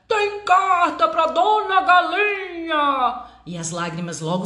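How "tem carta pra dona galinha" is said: loud, slow call from outside; yelling across the room. Acted. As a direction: shout it from outside the door. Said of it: "Ele gritou lá de fora".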